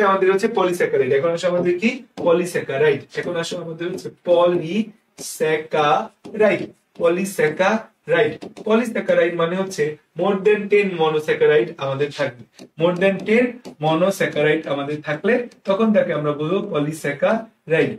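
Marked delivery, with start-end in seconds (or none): 3.1-8.3 slow, deliberate repeat. Shown as a demonstration. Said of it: "slowed repeat of line 134". 12.8-17.9 slow dictation. Shown as a demonstration. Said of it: "definition repeated slowly for dictation".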